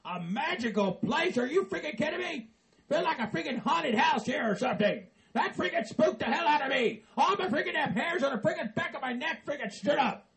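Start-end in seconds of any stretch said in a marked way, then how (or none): 1.4-10.3 nervous laughing rant. Acted. Spooked man laughing nervously.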